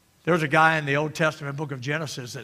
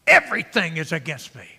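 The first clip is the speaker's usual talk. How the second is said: loud, measured lament; acted complaint; 6 dB louder than usual. Frustrated Jacob makes his statement, measured acted complaint. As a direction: state it firmly as a grievance. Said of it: "he makes a statement".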